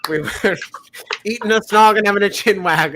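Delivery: a hint of a British pub voice, barely shifted; half-hearted British accent, a touch brighter at the start; bad British accent. Host putting on a British accent for the quiz, faintly. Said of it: "I've never been one for accents".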